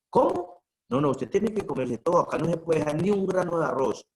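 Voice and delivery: a high shocked "¿Cómo?", then insisting; a friend aghast at leftover food; surprised scolding. Retold or imitated.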